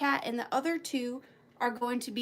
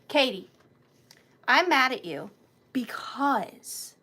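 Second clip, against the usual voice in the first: mock scolding whisper; 3 dB louder than usual. Teasing a viewer.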